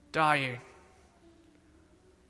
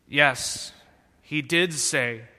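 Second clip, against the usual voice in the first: mild shout; 3 semitones lower, slower than usual. Acted. Weary son answering the serpent, mildly shouted. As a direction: push back with a mild raised voice. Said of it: "shouted the staggering son".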